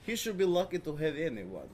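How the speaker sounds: blunt, broken-English Eastern European voice; deadpan Eastern European bluntness; Eastern European accent. Retold or imitated. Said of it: "Eastern European and so incredibly blunt".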